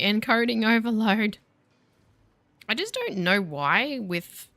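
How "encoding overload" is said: higher, drawn-out alarm voice; mock frantic scream. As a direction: imitate a program's frantic warning, half-screamed. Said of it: "O B S frantically screaming at me".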